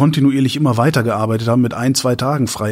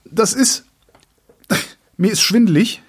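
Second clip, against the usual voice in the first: pitched up, animated; excited high voice; 11 semitones higher, slower than usual. Real, not acted. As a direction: voice jumps up in excitement. Describing sudden dizzy spell.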